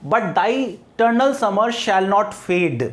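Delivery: very slow, measured verse reading; poem recitation. Shown as a demonstration. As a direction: read the line slowly like a poem. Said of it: "next line है आपकी". (धीमा कविता पाठ)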